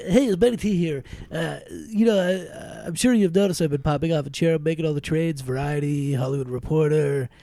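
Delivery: movie star voice. Acted. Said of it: "That's my new movie star voice".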